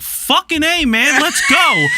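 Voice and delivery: excited and high-pitched; hyped-up fanboy cheer. Retold or imitated. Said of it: "and you're like".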